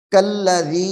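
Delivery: कल्लज़ी with the k running straight into a doubled l; कल्लज़ी recited with kaf merged into lam; kaf joined to lam. Shown as a demonstration. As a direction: join the k to the l in कल्लज़ी. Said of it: "ये काफ को लाम के साथ मिलाएंगे".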